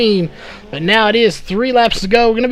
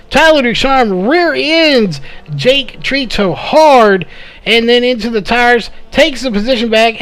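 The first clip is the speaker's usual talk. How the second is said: excited; 3 semitones higher than usual. Real, not acted. Crash during live race call.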